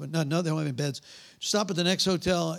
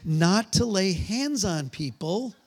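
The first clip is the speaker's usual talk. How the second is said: slow, word-by-word reproof; deliberate told-you-so reprimand; mock scolding; slower than usual. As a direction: spell it out like an exasperated husband. Acts scolding his wife afterwards.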